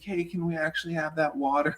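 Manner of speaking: small, polite, apologetic voice; apologetic request. Retold or imitated. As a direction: imitate someone sheepishly asking a favor. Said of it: "they look at us and apologize".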